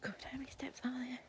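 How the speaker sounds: breathless whisper on the stairs. Real, not acted. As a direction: whisper between steps. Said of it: "Don't know why I'm whispering".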